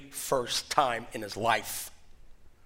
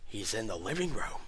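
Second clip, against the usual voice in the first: eerie murmur; 5 semitones lower, 5 dB quieter than usual. Retold or imitated. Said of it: "And she goes".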